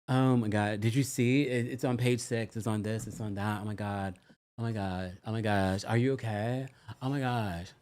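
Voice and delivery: mock-fretting Valley girl, oh my God on loop; a hint of Valley girl glued to her phone; Valley girl impression. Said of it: "Rachel does talk like a College Valley girl".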